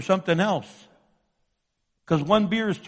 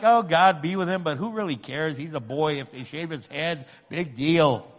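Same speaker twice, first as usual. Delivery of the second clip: mock indifferent prayer; 4 semitones lower than usual. Imitating a half-hearted prayer.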